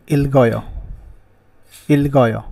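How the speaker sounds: teacher modelling इलगोयो; pronunciation demo. Shown as a demonstration. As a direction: carry the g over: इलगोयो. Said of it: "इसको ऐसे पढ़ेंगे हम".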